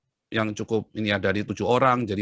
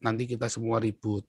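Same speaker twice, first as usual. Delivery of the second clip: soft fatherly caution; father's advice; 2 semitones lower, 8 dB quieter than usual. Retold or imitated. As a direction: quietly talk the child down. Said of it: "ayah saya selalu bilang apa".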